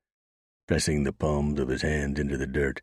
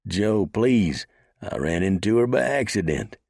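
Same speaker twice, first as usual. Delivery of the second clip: higher, louder pleading; beseeching; 6 semitones higher, 4 dB louder than usual. A narrator's reading. Beaten gunman beseeching the marshal. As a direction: beg for mercy. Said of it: "held up one hand in beseeching".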